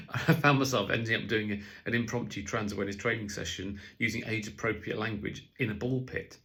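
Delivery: ordinary delivery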